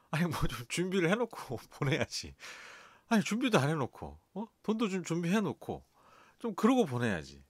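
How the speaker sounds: petulant complaining to God, half laughing; irritated complaint. Retold or imitated. Preacher retelling his irritated prayer to God, mock petulant. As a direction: grumble at God like a wronged child. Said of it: "갑자기 신경질이 나는 거예요".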